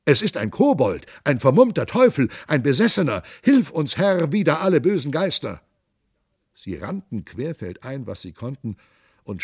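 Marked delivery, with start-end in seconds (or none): 0.0-5.6 scared crying out. Acted. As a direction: yelp for help in fright. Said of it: "und sie schrien".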